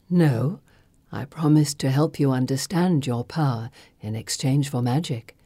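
low, measured ancient spirit; cool, knowing sorceress; Circe's voice. Acted. Circe speaking.

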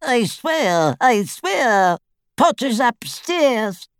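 high, thin wailing oath; desperate pleading. A narrator's reading. Tortured father swearing to his attackers, desperate wail.

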